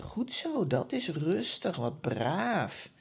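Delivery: soft praise, "Goed zo" lifted high, then settling quietly; calm praise. Shown as a demonstration. Trainer showing owners how to praise a calm dog, soft and tender. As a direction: soothe and reward the dog with your voice. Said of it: "dus je gaat zeggen".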